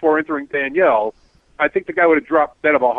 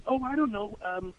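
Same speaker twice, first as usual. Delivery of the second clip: imitating the woman; 4 semitones higher, 10 dB quieter than usual. Retold passenger woman speaking.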